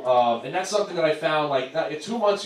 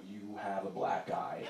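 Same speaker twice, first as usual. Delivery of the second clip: hushed realization; 7 semitones lower, 15 dB quieter, slower than usual. Retold or imitated. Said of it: "I go".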